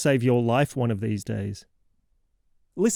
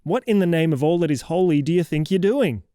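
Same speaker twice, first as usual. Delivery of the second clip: alarmed outburst; 5 semitones higher than usual. Acted. Host catches the kid yawning, alarmed scolding outburst. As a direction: jolt as if catching a child mid-disaster.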